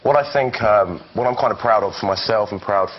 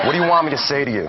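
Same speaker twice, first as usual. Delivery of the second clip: American accent; 5 semitones higher, faster than usual. Shown as a demonstration. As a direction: switch into your American character's accent. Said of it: "Talk American".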